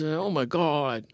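slow alarmed gasp of a ghost; drawn-out startled ghost cry. Shown as a demonstration. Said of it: "Like that".

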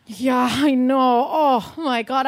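slow, weepy; mock crying. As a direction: sob it out, hammed up. Upset by the news.

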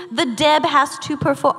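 prim mid-Atlantic reading voice; affected mid-Atlantic delivery; mid-Atlantic accent. Acted. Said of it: "oh wait, that's just my own".

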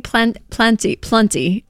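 slow, accented "plenty", vowel shifting each time; English or Southern accent. Shown as a demonstration. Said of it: "I sound like an English accent or a Southern accent".

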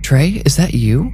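high, urgent hopeful question; startled hope, calling to a lost husband; nearly shouted. A narrator's reading. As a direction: pitch it up, rising to the end. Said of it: "she nearly shouted".

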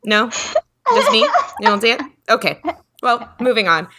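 high airy mock-casual voice; breezy friend. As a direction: toss it off lightly, like a spirit is no big deal. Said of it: "she's like".

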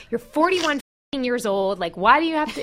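huffing at a big brother who always needs rides; annoyed rant. Retold or imitated. Sister mock-ranting at her older brother, exasperated. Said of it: "I was so annoyed".

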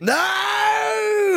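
high, shocked yelp of disbelief; shocked cry. Real, not acted. Reacting to the friend's photo, a shocked high cry. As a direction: squeal out a horrified no.

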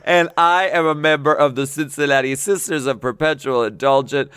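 lightly put-on Southern reading of the letter; mock Southern accent. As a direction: read the fan letter in a campy Southern accent. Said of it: "I'm sorry for this offensive accent".

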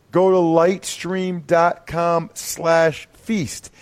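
lightstream dot com slash feast spelled out slowly; slow URL. Shown as a demonstration.

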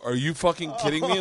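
loud, incredulous question; retold disbelief. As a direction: act out being stunned by the news. Reaction to shocking reveal.

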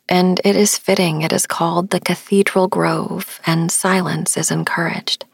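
calm, measured bedtime storytelling; sleep story narration. A narrator's reading. Sleep podcast host recounts a forest visit to listeners, calm narration. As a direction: tell it unhurriedly, to help listeners drift off.

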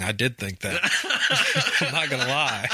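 words tumbling out between real laughs; laughing while confessing. Real, not acted. Cohost laughing as he admits he was worried. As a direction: giggle through the admission.

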